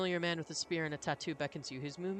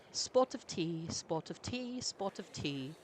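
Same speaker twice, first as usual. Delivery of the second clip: warming up a British accent; a mock British accent, practising; 3 semitones higher, slower than usual. Shown as a demonstration. British accent tried out to nail the voice. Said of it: "British accent. I can do this".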